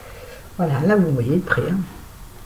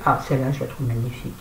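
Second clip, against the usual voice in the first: breathless, winded; out of breath; 5 semitones lower, 5 dB quieter, faster than usual. Real, not acted. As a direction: still short of breath. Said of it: "essoufflée".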